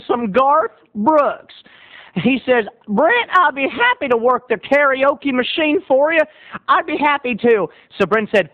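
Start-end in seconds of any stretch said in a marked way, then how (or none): 2.9-7.7 high, lightly hammed-up eagerness; eager volunteer. Country boy offers bartender help, eagerly. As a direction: pipe up keen to help.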